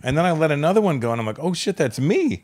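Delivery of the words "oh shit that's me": higher, slow mock dismay; retold dawning realisation. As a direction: act out suddenly realising you're the culprit.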